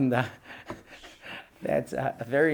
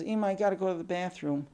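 lightly voiced child, pitched higher; little girl pleading; 4 semitones higher, 4 dB quieter than usual. Older sister needing the bathroom, mildly pleading. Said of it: "The sister comes in and says".

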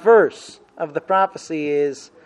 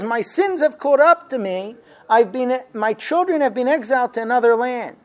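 mild mock outcry, pitched higher; retold cry of Samaria; 5 semitones higher than usual. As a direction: Samaria calls out her sins, lightly acted. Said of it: "So Samaria yells out and says".

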